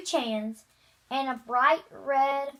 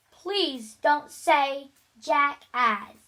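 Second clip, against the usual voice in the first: slow, firm, a little louder; voice raised a little; 4 dB louder, slower than usual. Acted. Teacher telling the boy off in front of the class, firmly raised. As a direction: lean on each word to stop him. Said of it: "Mister Dash raised his voice a little".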